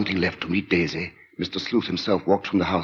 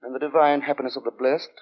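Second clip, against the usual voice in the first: sinister lodger; 8 semitones higher than usual. Acted. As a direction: speak like a polite man hiding menace. Narrator voices the lodger Sleuth.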